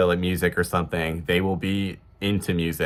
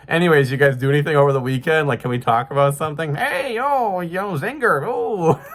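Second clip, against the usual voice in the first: mock exasperated; 9 semitones higher, 4 dB louder than usual. Mocking himself dodging the banter.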